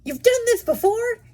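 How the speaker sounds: high, rising panicked question; voice climbing. Acted. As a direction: pitch shoots up in fear. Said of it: "His voice climbed".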